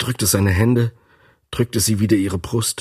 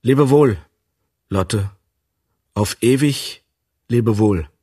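calling farewell. A narrator's reading.

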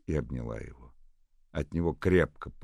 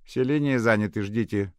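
lightly voiced croaking operator; a hint of a croaking bored operator; 9 semitones higher, 10 dB louder than usual. A narrator's reading. Operator answering Nadenka, lightly croaking. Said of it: "проквакала Междугородняя".

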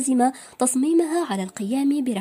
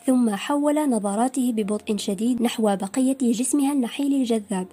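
ordinary delivery

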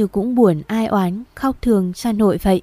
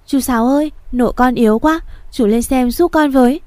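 raised, pleading call; urgent calling; 4 semitones higher, 3 dB louder than usual. Acted. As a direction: beg the neighbour to come, louder. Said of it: "đập cửa tích cực hơn". (gọi to, khẩn thiết)

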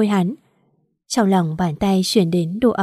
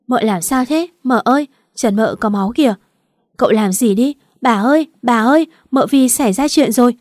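alarmed shout, building higher and louder; crying out; 4 semitones higher, 4 dB louder than usual. Acted. Maid shouts for the grandmother when the wife bleeds, higher and louder. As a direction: call for help, rising in panic. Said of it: "Chị Tú la lên".

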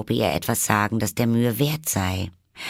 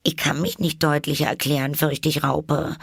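put-on higher, quick girlish figure voice; polite Alice; 7 semitones higher than usual. A narrator's reading. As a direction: answer quickly in a high voice. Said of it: "sagte Alice". (höhere, höfliche Alice-Stimme)

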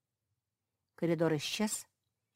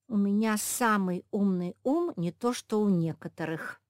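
announcing; 4 semitones higher, 6 dB louder than usual. A narrator's reading. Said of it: "объявила самая младшая мопсиха".

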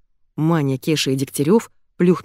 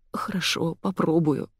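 trembling mutter; 6 dB quieter than usual. Acted. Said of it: "дрожащим голосом пробормотал Фёдор".

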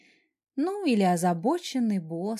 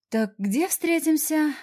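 sighing; 6 semitones higher, 3 dB louder, slower than usual. Acted. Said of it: "вздохнула я".

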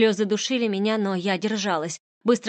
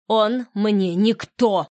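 louder, slow defiant snap; snapping back; 5 dB louder, much slower than usual. Acted. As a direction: bite the words back at her. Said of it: "огрызнулась я". (огрызнуться)

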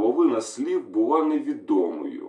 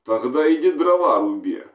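louder, snapping order from an irritated commander; angry shout; 4 semitones higher, 6 dB louder than usual. Acted. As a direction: bark it at the stubborn soldier. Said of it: "сердито крикнув командир".

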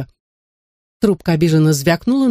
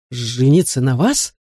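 slow, stunned mock-horror question; horrified; 3 semitones lower than usual. A narrator's reading. Man recoiling from an unwanted proposal, horrified and slow. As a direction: recoil at a marriage proposal, lightly aghast. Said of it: "ужаснулся мистер Уэнтворд".

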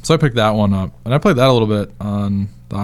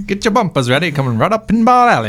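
much higher, louder pitchman voice; hyped ad announcer; 9 semitones higher, 4 dB louder than usual. Acted. Hamming up a pinball ad for his co-host, much higher and louder. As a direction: sell the pinball machine like a cheesy ad.

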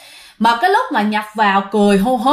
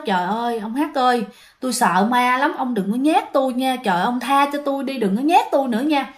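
frightened pleading; 3 dB quieter than usual. Acted. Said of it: "Ổng sợ quá trời luôn".

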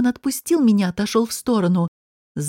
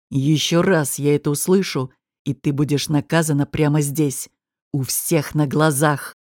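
low menacing threat; 7 semitones lower than usual. A narrator's reading. Gangster threatening the redheaded barmaid, low and menacing. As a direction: lean in and hiss the threat low. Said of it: "Его голос звучал негромко, как шипение".

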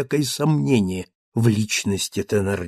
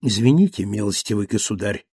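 strange politeness; 5 semitones lower than usual. Acted. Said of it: "с вежливостью странной".

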